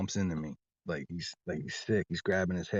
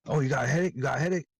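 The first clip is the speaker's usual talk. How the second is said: higher, sneering echo of headache; mocking teacher; 6 semitones higher, much faster than usual. Teacher mocking my headache, high sarcastic echo. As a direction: throw the headache back at him with a sneer. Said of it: "real obvious".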